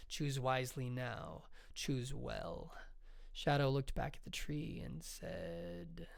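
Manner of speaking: measured, unhurried read of an epic tale; story reading. Acted. Author reading her saga to listeners, slow and steady. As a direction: read it like a saga, letting lines breathe.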